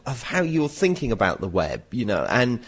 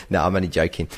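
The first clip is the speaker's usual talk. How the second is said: laughing; 5 semitones lower, faster than usual. Real, not acted. Laughs off the joke.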